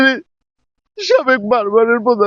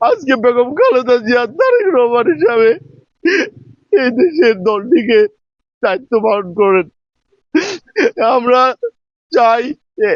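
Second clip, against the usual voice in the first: snotty crying. Real, not acted. Praying for the mourning nation.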